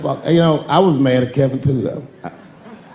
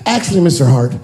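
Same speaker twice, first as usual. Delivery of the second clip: louder, cheeky ask; bold kid; 3 dB louder than usual. Retold or imitated. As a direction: seize the moment boldly. Son pushing past dad.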